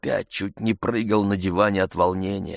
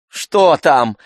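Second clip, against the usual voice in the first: higher, louder impatient question; 7 semitones higher, 9 dB louder than usual. A narrator's reading. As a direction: snap it out, annoyed at the wait. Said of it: "с нетерпением спросил он".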